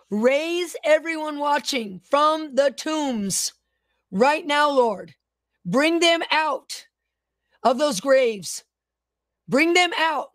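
slow, deliberate prayer with falling phrase ends; prayer declaration. Real, not acted. Preacher praying over online viewers, slow fervent prayer. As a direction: pray it out phrase by phrase, drawn-out and commanding.

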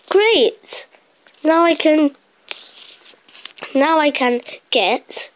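high-pitched greedy villain; greedy thief voice. Pretend. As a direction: play the gleeful greedy thief.

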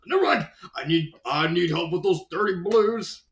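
lightly hammed-up plea for help; mock villain on the radio; scheming caller. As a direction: brush it off, then beg for backup. Villain calls the Reds for help.

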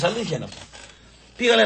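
normal talking voice

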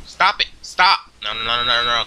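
high, loud, short cries; urgent shout. Real, not acted. Player under attack calling to stop, urgent shout. Pleading with game opponent.

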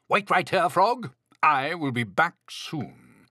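lightly voiced eager storybook Toad. A narrator's reading. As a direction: call it out eagerly to a friend. Toad eager to fetch ice cream.

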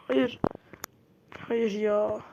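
sharp loud cry of no; dismayed shout. Real, not acted. Gamer yelling no as the fight is lost. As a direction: yell no at the screen in dismay.

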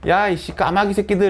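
lightly acted swearing; mock cursing. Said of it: "해서 욕한 거야".

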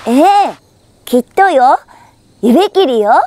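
put-on eager girl. Girl promising pinky swear.

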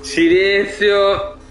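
silenzio stretched very slowly; long slow shushing word; drawn-out hush. Acted. Hushing teammates in tense game.

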